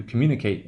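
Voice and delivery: communicate ending in a full "kate"; long A in communicate. Shown as a demonstration. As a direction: say communicate with the final A-T-E unreduced. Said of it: "A T E will be the long value".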